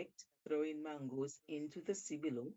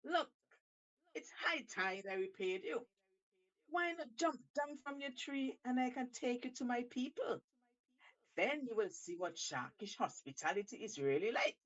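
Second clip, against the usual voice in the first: eager shark; 6 semitones higher than usual. Acted. Shark invites monkey.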